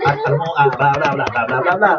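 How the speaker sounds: mock news read to a sweetheart; lightly voiced newscaster talking to his wife. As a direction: deliver love like a headline. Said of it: "May tono pa eh".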